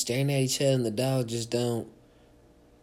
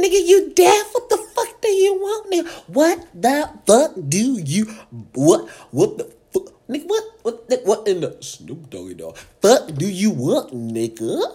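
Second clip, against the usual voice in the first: loud, much higher mock yell; 9 semitones higher, 9 dB louder than usual. The comedian yelling at the kid who won't answer. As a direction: yell it like he's deaf. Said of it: "I said".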